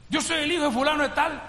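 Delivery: happy. Retold or imitated. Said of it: "me dijo, pero bien contento".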